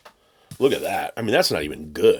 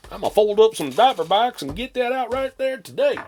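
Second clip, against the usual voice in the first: JP impression; 6 dB louder than usual. Vlogger impersonating the seller folding diaper box, high and loud. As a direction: sneer it as the lazy seller. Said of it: "that's my J P impression".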